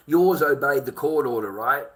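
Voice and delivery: loud, accusing, hammering yours; angry confrontation. Real, not acted. Father confronting a chatter over custody, loud accusation. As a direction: call him out hard.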